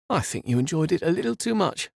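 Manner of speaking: mild huffy reproach; huffed. Acted. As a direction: huff at him. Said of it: "she huffed".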